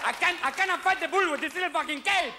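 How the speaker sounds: high, put-on complaining bullfighter; whiny bullfighter. A bullfighter complaining about his shrunken cape, high and whiny.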